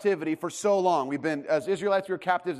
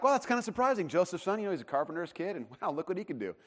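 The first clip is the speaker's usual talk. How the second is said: lightly mock-impressed reading, trailing off softer; naive pleasant surprise; 3 dB quieter than usual. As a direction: read it as a mild, harmless compliment. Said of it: "we read that like".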